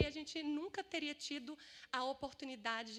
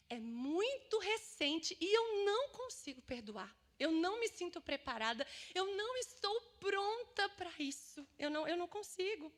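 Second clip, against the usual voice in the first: pained refusal; 4 semitones higher than usual. Acted. Listener telling Isabela the wound is recent, acted anguished refusal. Voices listener unable to forgive.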